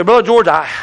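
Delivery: quoting a doubter. Retold or imitated. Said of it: "They say".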